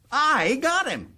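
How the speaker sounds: slow, high, drawn-out gloat; savoring triumph. Acted. Governor repeating his boast to the boys, slow drawn-out gloat. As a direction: stretch it out and savour the win.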